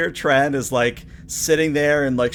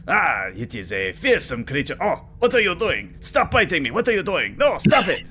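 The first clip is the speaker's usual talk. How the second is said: hammed-up panic, higher and rising; mock panic; 5 semitones higher than usual. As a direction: flail and yelp at the biting lobster. Alien bitten by the lobster.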